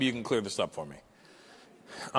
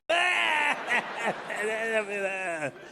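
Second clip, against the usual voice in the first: high giggle; 8 semitones higher than usual. Retold or imitated. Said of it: "giggle like little kids".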